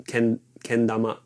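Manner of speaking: kendama with the pitch going down; ken-, kendama, falling pitch; pitch accent demo. Shown as a demonstration. Showing viewers the falling pitch on kendama. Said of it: "It's down".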